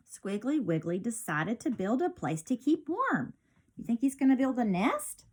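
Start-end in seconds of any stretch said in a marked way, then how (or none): 0.1-3.3 lively storybook read-aloud; bright picture-book narration; reading to children. A narrator's reading. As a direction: read it like storytime for little kids.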